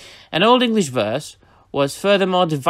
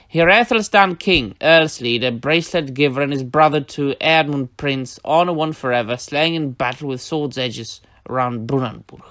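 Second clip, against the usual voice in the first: translation recital. Shown as a demonstration. Teacher reading his modern English translation aloud, declaimed. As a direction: recite the translation in a bardic cadence. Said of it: "modern English, this is my translation".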